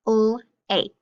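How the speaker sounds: "L, ache" split into first sound and rime; sounding out lake. Shown as a demonstration. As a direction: say the sound "L", pause, then "ache". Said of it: "make the word lake".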